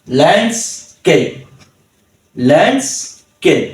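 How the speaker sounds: ল্যান্ডস্কেপ slowly split into ল্যান্ডস and কেপ; slow ল্যান্ডস্কেপ with a gap before কেপ; two-syllable pronunciation. Shown as a demonstration. Teacher showing two syllables, ল্যান্ডস্কেপ slow and broken up. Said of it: "এটা আমরা দুই সিলেবলে ভেঙেছি".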